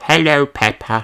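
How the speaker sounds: a lightly voiced shy lamb greeting; shy hello. A narrator's reading. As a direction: greet back a bit awkwardly. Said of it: "says Susie".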